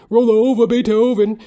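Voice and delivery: high, loud exclamation; shouted title. Pretend. Recalling the dog Beethoven, shouts loud and high. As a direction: belt it out like a rock chorus.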